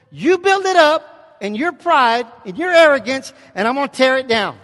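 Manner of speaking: booming divine warning. Acted. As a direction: thunder it down as God. Voicing God's warning from Malachi.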